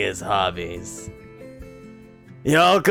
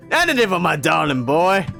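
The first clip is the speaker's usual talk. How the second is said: louder hearty dad line; loud proud father; booming affection; 5 semitones higher, 4 dB louder than usual. Acted. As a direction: declare it proudly.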